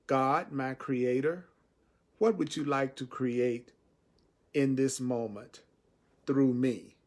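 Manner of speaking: slow, unhurried prayer to God. Shown as a demonstration. Teacher shows the prayer the way he likes to say it, slowly. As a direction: ask it slowly, like a real prayer. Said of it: "See, I like to say it this way".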